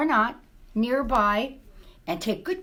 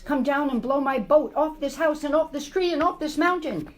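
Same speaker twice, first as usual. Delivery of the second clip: mouse shouting; 6 semitones higher, 4 dB louder than usual. Acted. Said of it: "shouted the mouse".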